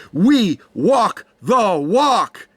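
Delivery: slow, word-by-word declaration; emphatic pledge. Retold or imitated. Voicing the Texas champion's promise, slow and emphatic. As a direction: draw out each word with weight.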